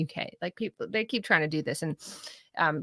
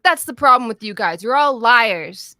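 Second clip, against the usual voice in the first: cartoony guest; 3 semitones higher, 10 dB louder than usual. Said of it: "it's just like my accent, but cartoony".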